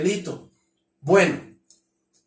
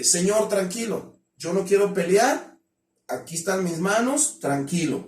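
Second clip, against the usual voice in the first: calming plea. Shown as a demonstration. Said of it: "pídele calma al delincuente".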